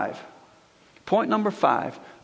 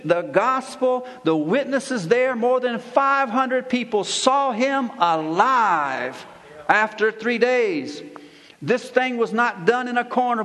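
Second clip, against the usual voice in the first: emphatic proclamation, weighty words stretched out; forceful preaching; 3 semitones higher than usual. Real, not acted. Pastor declaring the resurrection to his congregation, forceful preaching. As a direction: drive each point home to the congregation.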